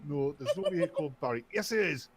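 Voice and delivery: building from insistent to a high mock yell; hammed-up rising indignation; mock phone argument. Acted phone quarrel rising.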